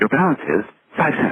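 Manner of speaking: very high, chirpy, bright put-on automated recorded announcer voice. Retelling a calling-card call, the speaker mimics the voice that came on: imitating a chirpy voice. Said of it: "this very chirpy voice comes on".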